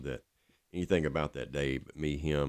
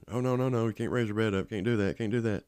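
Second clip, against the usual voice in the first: higher-pitched imitation of fussing staff; urgent objection; 7 semitones higher than usual. Hospital staff stopping him raising his mother's bed, urgent objection. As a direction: object in a raised pitch, repeating it insistently.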